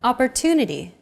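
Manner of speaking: Opportunity with TU stressed and held longer. Shown as a demonstration. Teacher comparing English rhythm with Arabic, stress on TU. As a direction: lengthen the tu in Opportunity, others short. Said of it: "stressed syllable to in opportunity".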